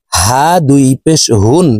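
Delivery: হা and হুন with a plain h from the throat's start; small ha, deep throat. Shown as a demonstration. Teacher contrasting two ha letters, open deep-throat হুন. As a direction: let the h of হুন come open from the bottom of the throat. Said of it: "এই হার উচ্চারণ হলকের শুরু থেকে".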